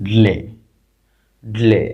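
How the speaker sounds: ড্লে as one blended syllable, d straight into le; pronunciation demo. Shown as a demonstration. Teacher shows students the blend, pronunciation demo. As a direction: model ড্লে with d and l run together. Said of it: "এখানে বলবো কি".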